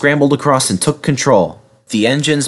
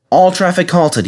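raised-pitch official announcement; 8 semitones higher than usual. A narrator's reading. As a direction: announce it to the railway. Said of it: "he announced at last".

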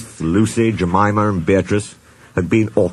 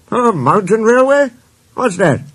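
high-pitched, louder baffled query; incredulous question; 13 semitones higher, 5 dB louder than usual. A narrator's reading. Engine hears of an unknown kind of railway, incredulous.

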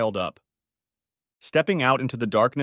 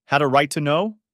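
loud, high, outraged question ending on a rise; indignant disbelief, pitched up; incredulous echo; 5 semitones higher, 6 dB louder than usual. A narrator's reading. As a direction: hurl it back as an accusation. Mother repeats the outraged echo.

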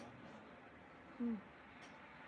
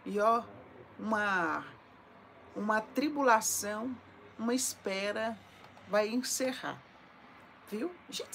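ordinary talk, nothing marked

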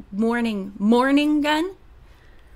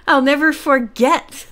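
louder retake with a laugh; 3 semitones higher, 3 dB louder than usual. Real, not acted. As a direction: laugh into the corrected line. Corrects misreading while laughing.

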